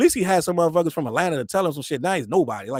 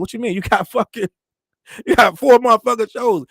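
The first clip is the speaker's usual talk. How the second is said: exasperated protest; 4 semitones higher, 6 dB louder than usual. Retold or imitated. Imitating a manager's protest.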